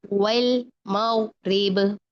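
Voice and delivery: slow recitation, light "wel" on वल; spread thin lam. Shown as a demonstration. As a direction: hold वल thin, then मग़रिब slowly. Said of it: "वल नहीं करना".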